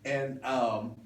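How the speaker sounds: high-pitched mock artist recording a drop; playful high imitation of a woman's drop; imitated radio drop. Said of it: "And she kept saying".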